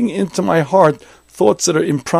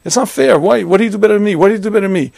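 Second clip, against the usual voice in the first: higher, louder, an aggrieved it's-not-fair complaint; hammed-up resentful whine at a luckier friend; jealous outburst; 4 semitones higher, 3 dB louder, much faster than usual. A jealous man asking his rival why, in a resentful rising whine.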